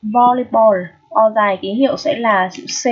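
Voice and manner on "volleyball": "Volleyball" with a long, held O. Shown as a demonstration. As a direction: draw out the O in "Volleyball". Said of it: "chúng ta sẽ đọc dài ra".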